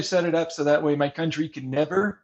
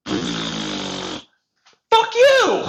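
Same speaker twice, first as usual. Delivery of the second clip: very low, drawn-out growling voice; deep growl; 3 dB louder than usual. Retold or imitated. Player tells the government off in a long low growl. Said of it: "And then it's just like".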